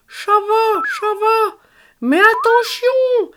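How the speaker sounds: high, slow garbled cuddly-toy voice; muffled toy voice. A narrator's reading. Cuddly toy Berck answers his friends through the bath foam.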